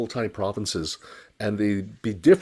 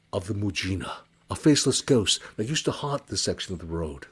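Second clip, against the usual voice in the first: storyteller's voice, measured and vivid; story narration. A narrator's reading. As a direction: draw the listener into a spooky tale. Tells Mujina ghost story.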